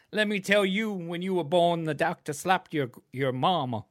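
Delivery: hammed-up Southern scolding; Southern grandfather. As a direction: imitate a granddad ribbing in a Southern accent. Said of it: "what my grandfather would say to my".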